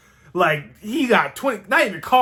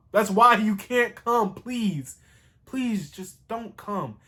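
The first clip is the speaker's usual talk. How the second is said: tender plea; 3 semitones higher, slower than usual. Retold or imitated. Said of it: "a really sweet moment".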